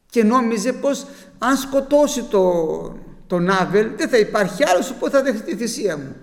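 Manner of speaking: loud, forceful pulpit delivery; fervent preaching. Acted. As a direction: drive it home to the congregation. Preacher voicing Cain's envy. (έντονο κήρυγμα)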